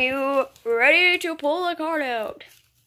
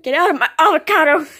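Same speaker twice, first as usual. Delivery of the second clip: Batman voice; 2 semitones higher, 8 dB louder, faster than usual. Retold or imitated. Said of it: "Why'd you say".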